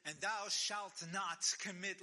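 a hint of solemn old-fashioned scripture voice, slowed; slightly slow mock-solemn reading; mock King James. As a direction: lightly ham up archaic Bible-speak. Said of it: "no one talks like that".

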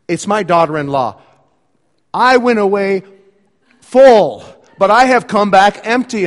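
put-on bitter Naomi whining to her old friends; self-pitying wail. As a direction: wail it like a martyr who wants pity.

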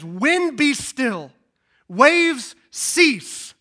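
loud, high command with weighty pauses; commanding shout. Acted. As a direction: order the storm to stop. Acted Jesus commanding the storm.

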